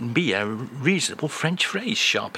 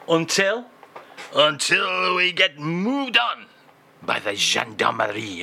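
put-on French accent; 3 semitones higher than usual. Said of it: "like a French crooner".

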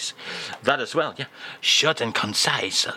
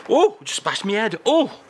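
pained yelp; 9 semitones higher, 3 dB louder than usual. Acted. Host bumps head.

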